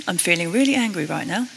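calmly stated anger, no edge; composed, understated delivery of an angry admission. Shown as a demonstration. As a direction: say it without sounding angry at all. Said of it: "in that tone of voice, very calm".

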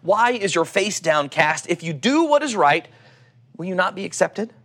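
calm, measured Bible reading; scripture reading. Acted. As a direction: read the passage like a sermon text. Reads Genesis passage aloud.

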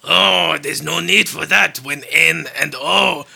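loud, slow, hammed-up French; French accent. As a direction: belt out a badly faked French reply. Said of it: "let's do a French accents".

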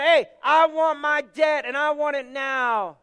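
slow, loud, gripping demand from the throat; menacing demand. Retold or imitated. Servant choking his debtor, demanding money in a slow, loud growl. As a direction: bear down on every word like a throttling creditor.

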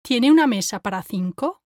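soft unaspirated T in "Tiene"; soft Spanish T. Shown as a demonstration. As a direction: say "Tiene" with tongue on the back of top teeth. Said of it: "compare it to how I say it".

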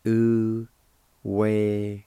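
"Uwelon" stretched out very slowly, oo-weh-lon; teacher drawing out "Uwelon" very slowly. Shown as a demonstration. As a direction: draw "Uwelon" out slowly for learners. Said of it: "It's pronounced like this".

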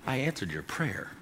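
hushed voice of God; gentle voice of God. Retold or imitated. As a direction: say it like a gentle father breaking news.

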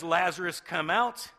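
calling out. Acted. Jesus summons Lazarus, loud call. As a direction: summon him by name. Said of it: "Jesus says".

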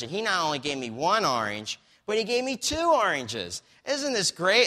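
a lady thrilled that God sent two oranges; ecstatic lady. Retold or imitated. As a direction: burst out with delight.

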